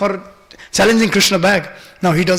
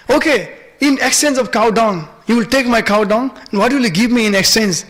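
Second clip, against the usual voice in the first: lightly acted haggling, voice raised; bargaining child Krishna; 4 semitones higher, 3 dB louder than usual. Little Krishna bargaining with the gopi, lightly acted. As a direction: press for a deal in a higher voice.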